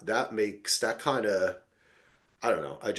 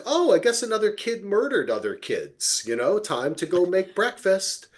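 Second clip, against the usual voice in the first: higher, offhand and matter-of-fact; numb shrug; 7 semitones higher than usual. Retold or imitated. Host mocking American numbness to shootings, offhand. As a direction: toss it off like daily news. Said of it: "every day we're like".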